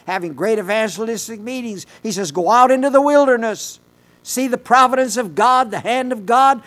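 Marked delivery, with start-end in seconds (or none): 2.3-6.6 God's command. Acted. God voiced in a Bible retelling.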